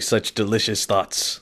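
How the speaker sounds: low, slow savouring bird voice; brain-pecking bird. Acted. Voicing the green bird pecking at his brain, slow relish. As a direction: savour it slowly, soft and low. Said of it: "He's like".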